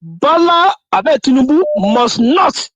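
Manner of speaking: slow and deliberate, landing on "not"; stress on NOT. Real, not acted. Guest warning about Tinubu's agreement, slow stress on "not". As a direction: underline the word "not" with weighty, drawn-out delivery. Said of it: "that's not, underline".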